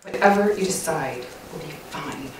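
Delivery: low, quiet, resentful compliance with a falling tune; tone says otherwise. Shown as a demonstration. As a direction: agree in words while the tone says the opposite. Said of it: "My tone says it all".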